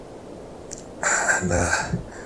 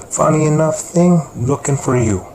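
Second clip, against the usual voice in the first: menacing call-out; 7 semitones higher, 5 dB louder than usual. Acted. Carlos menacing Malcolm.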